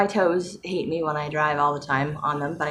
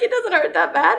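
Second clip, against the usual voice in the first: very high, louder mock-tearful protest; voice cracking, tearful; 5 dB louder than usual. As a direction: imitate your own voice cracking up. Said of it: "cracking up, tearing up".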